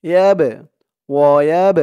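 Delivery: "ইয়াব" with a bouncing push on final b; qalqalah on ba. Shown as a demonstration. Teacher shows qalqalah, bouncing the b in "ইয়াব". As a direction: push off the b ending "ওয়ায়াব". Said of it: "বাটা কলকলার হরফ ধাক্কা দিয়ে পড়তে হবে".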